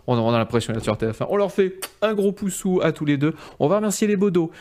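upbeat show host wrap-up; bright thanks to the guests; host outro. Acted. Host's closing outro. (ton d'animateur qui conclut)

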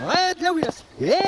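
reversed speech; played backwards. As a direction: talk as if the tape runs backwards. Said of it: "On dirait qu'il parle à l'envers".

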